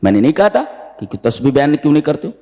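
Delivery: fast I-told-you-so; quick scolding reminder; reproachful middle brother. Retold or imitated. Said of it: "बीच वाले ने कहा". (तेज़ी से ताना देता बीच वाला भाई)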